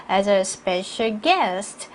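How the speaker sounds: slow fall on "guest", then stop; measured phrase, resting after "guest"; full pause at end. Shown as a demonstration. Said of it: "문장 끝났으니까 여러분 충분히 쉬시고요". ("guest" 뒤에서 충분히 쉬기)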